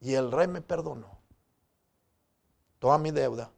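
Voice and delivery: voz baja y grave tras el clamor; asombro contenido, actuado. Acted. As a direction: baja de golpe el volumen y el tono. El mismo siervo, asombrado del perdón. (dicho quedo, casi para sí)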